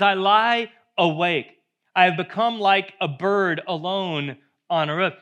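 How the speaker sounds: loud, slow lament read from the pulpit; forceful psalm reading. Acted. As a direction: lean hard into the lonely image.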